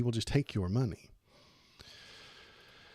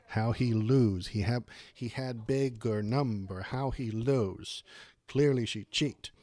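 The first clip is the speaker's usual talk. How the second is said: a hint of a dim sore loser, broken grammar; lightly voiced sulky complaint; mock whiny loser. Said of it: "point back to this number and say".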